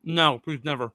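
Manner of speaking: talking through a mouthful of food; words pushed round a bite; mouth full. Real, not acted. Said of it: "got a full mouth".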